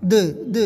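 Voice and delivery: د released with a short bounce; short voiced د with a tiny echo; echoed final d. Shown as a demonstration. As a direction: bounce each د lightly. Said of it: "اس طرح کی آواز".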